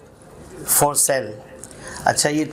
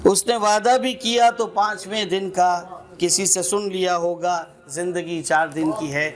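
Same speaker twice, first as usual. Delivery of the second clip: recited couplet, repeated with rising force; sher recitation; 3 semitones higher than usual. Acted. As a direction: build the line up for the punchline. (शेर पढ़ने का अंदाज़)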